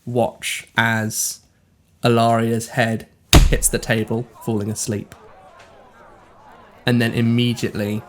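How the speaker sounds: measured narration with long pauses; game master's scene setting. Acted. Game master describing a dream to a player, measured narration. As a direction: unfold the vision piece by piece.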